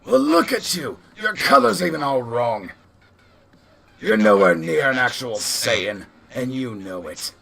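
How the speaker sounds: heckling yell, fading at the close; yelled taunt. Acted. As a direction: shout him down, easing off on the last words. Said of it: "You also hear him yell out".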